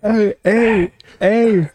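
playful hey. Acted. Playful calling out.

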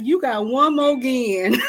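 a laugh breaking into a high squeal; laughing mock threat. Real, not acted. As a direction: warn God then crack up laughing.

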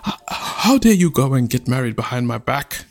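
put-on sputter, then tell the child off; outraged scolding. Chief scolding his daughter for secret engagement, outraged.

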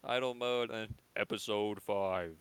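slow robotic welcome announcement; mock robot intro. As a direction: read it out slowly like an automated announcer. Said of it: "a robot voice saying the episode number".

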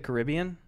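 "Caribbean" as kuh-RIB-ee-un; second-syllable stress. Shown as a demonstration. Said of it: "have you ever heard some".

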